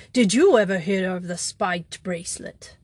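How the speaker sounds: lightly voiced astonished thief; mock disbelief, pressing; crying out. Thief demanding how the priest knew, mildly astonished. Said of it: "cried Flambeau".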